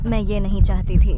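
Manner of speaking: loud, anguished protest; distressed pleading. Acted. Sister pleads as brother is seized, loud distress. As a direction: protest it desperately.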